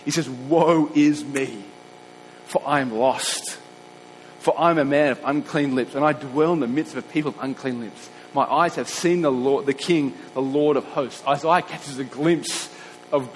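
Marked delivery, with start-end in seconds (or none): 0.3-11.2 Isaiah's lament. Acted. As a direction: voice Isaiah, lost before God. Preacher voices Isaiah's lament.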